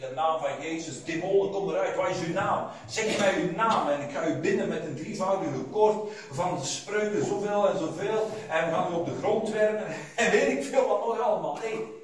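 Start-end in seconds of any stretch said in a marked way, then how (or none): 0.0-9.9 mock showy exorcist. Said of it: "dan ga ik er een heel showspel van maken".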